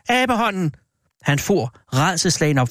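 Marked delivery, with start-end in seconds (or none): 0.1-0.8 high cry at no extra volume; wild cry. A narrator's reading. Wife wakes her husband with a sudden idea, crying wildly. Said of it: "skreg hun vildt".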